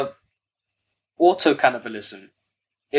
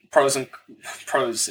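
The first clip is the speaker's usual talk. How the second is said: cracking up mid-line; slower than usual. Real, not acted. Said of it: "trying to say this with a straight face".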